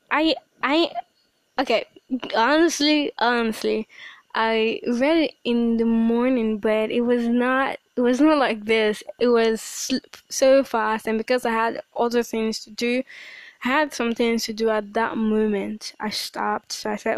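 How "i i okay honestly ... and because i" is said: louder, eager rush of excitement; bursting to share the reading; thrilled and loud; excited. Real, not acted. Excited about the devotional.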